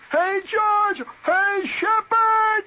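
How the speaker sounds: very high, loud drawn-out yard call, slow; hollering for a friend. Retold or imitated. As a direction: stretch the names out like a kid calling across yards. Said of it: "you holler out in the back".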